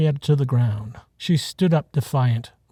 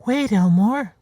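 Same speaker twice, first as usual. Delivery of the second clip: higher, firm herd mother; stopping Elmore; 8 semitones higher, slower than usual. A narrator's reading. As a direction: halt him, pitched up and firm. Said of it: "Henrietta stopped him".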